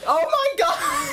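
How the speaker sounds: high, drawn-out exasperated wail; losing it. Real, not acted. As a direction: stretch it out in helpless disbelief. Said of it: "you're, like, losing it right now".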